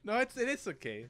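laughing protest. Real, not acted.

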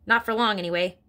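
mild bark. Acted. Headmistress retorting to Miss Honey, mild bark. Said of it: "Miss Trunchbull barked".

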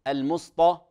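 "المسطى" with thick ط for ت; overdone heavy taa. Shown as a demonstration. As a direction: make the ت a dark ط in "المسطى". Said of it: "أصبحت طاء".

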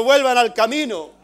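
grito al despertar, más fuerte y agudo; waking shout. Retold or imitated. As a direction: repite el grito del sueño, fuerte. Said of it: "Desperté gritando". (al despertar, gritando que vuelvan)

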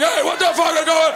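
high-pitched mock yell of an angry dad. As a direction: imitate Dad hollering down the stairs. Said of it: "with his underwear and his night dick yelling".

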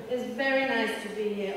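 lightly put-on English accent. Comedian signing off to the audience, mock English accent. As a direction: try on a polite English accent. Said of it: "Almost see my English accent".

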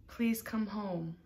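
slow, breathy whispered plea; pleading whisper. Acted. Edgar whispering to Jarvis, begging him home, slow whisper.

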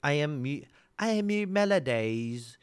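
hammed-up slow put-on streamer voice; mock Mu Melodies. Streamer teasing a friend by pretending to be her, slow mock voice. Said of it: "I can pretend that I'm Mu Melodies".

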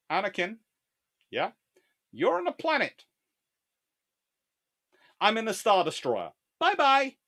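high, loud mocking comeback; Obi-Wan Kenobi. Jedi answering his rival from a warship, high mocking call. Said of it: "And Obi-Wan Kenobi going".

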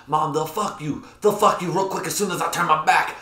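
high, exasperated son's protest; mock angry, near tears. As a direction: imitate an outraged son pleading with his mother. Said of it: "wants to cry with how angry he is".

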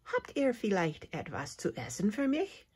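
a lightly voiced timid cricket asking for food; mildly thin, shy plea; thin little voice. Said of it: "fragt Hops mit dünner Stimme".

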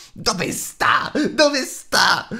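high, loud creature shriek, frantic; grido disperato. A narrator's reading. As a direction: cry out in panic, searching. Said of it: "lo udì gridare Bilbo". (grido acuto e disperato di creatura)

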